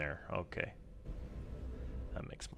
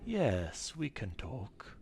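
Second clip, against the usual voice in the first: owl voice; 6 semitones higher, slower than usual. Acted. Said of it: "I'll let Titan answer that himself".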